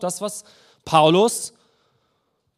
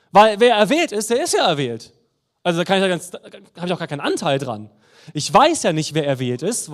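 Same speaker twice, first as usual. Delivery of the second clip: a mildly mocking, louder know-it-all take on the doctrine; caricatured Calvinist; 2 semitones higher, 4 dB louder than usual. Preacher caricatures a Calvinist to his listeners, mildly mocking. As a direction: lightly send up a complacent believer who thinks he need not act. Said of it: "eine gewisse Karikatur".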